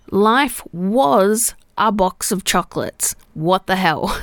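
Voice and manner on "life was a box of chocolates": "was" stressed and drawn out; slow, deliberate quote leaning on "was". Shown as a demonstration. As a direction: correct the quote by weighting "was". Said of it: "The line is".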